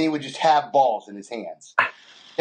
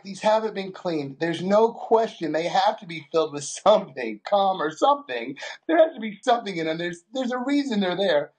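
incredulous protest; 6 semitones higher than usual. Retold or imitated. Retelling disgust at raw balls.

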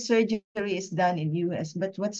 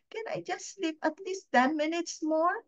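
higher, pleading to herself; sleepy plea; 8 semitones higher, 3 dB quieter than usual. Retold or imitated. To herself when the alarm rings, a sleepy higher plea. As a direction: beg the alarm for more sleep. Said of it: "I just slept and said".

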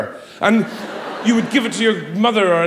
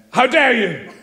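a touch of melodrama; lightly hammed stage outrage; mild theatrical indignation; Victorian theatre; 4 semitones higher, slower than usual. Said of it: "Straight from Victorian theatre".

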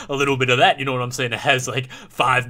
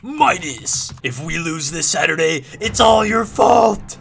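high mock yell building to a loud, drawn-out finish; hammed-up coach tirade; imitated coach yelling; 4 semitones higher, 6 dB louder, slower than usual. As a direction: blame the kid like a furious coach. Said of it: "round forty-five of yelling at Midas".

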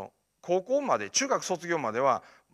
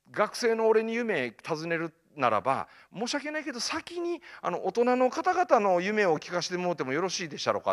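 polite retort; 4 semitones higher than usual. Retold or imitated. Student retorts politely to adults.

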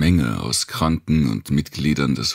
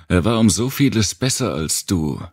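accusing inner voice; 6 semitones higher than usual. A narrator's reading. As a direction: throw the comparison in his face. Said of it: "hörte ich".

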